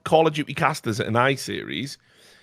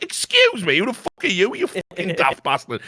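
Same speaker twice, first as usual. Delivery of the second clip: indignant retort; 6 semitones higher than usual. Retold or imitated. Retold confrontation, answering back.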